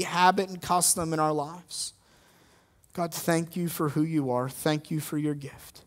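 gentle pastoral prayer, fading at the end; closing prayer. Acted. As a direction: pray humbly over the congregation.

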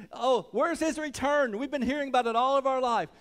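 preacher voicing scornful doubters; mocking. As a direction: jeer as an impatient scoffer. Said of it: "where it says they're mocking him".

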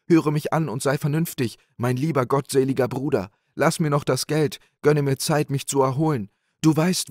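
hoch und gehetzt, jammernder Wirt; flehender Wirt. A narrator's reading. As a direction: den Bruder verzweifelt anflehen. Innkeeper pleads with monk. (jammernder, flehender Wirt, höher gesprochen)

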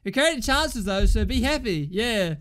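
bitter, goading sarcasm thrown at a fellow fan; sarcastic taunt. Real, not acted. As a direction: needle Simon with mock cheer. Sarcastically taunting Simon after conceding.

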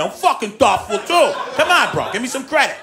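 loud mock-offended dude; offended guy. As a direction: insist you're thoughtful, bro. Offended guy protesting, louder.

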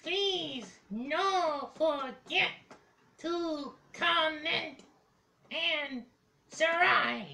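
slow, soft creature voice; dragon voice. Acted. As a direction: slowly croon it like a creature. Puppet signs off slowly.

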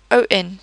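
"on" as an open French nasal vowel; French A N sound. Shown as a demonstration. Teacher compares A N with O N, open nasal "on". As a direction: open nasal "on", N left silent. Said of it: "you see that A N is".

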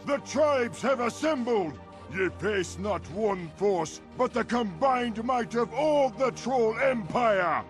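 high-pitched, proclaiming battle cry; rallying war speech. Acted. Troll leader warning foes of the empire, rallying cry.

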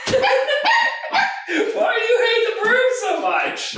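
high pet voice, drawn out; high dog-talk voice. Real, not acted.

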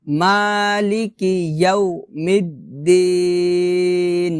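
measured chanting for students to repeat; Quran recitation demo. Shown as a demonstration. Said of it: "আমি যেভাবে উচ্চারণ করতেছি".

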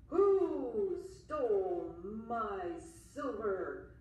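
slow, loud, looming monster voice; menacing monster. Acted. Monster hunting the boy who stole its silver, slow and loud. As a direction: drag each word out like a beast on the hunt. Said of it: "Just as Tick said".

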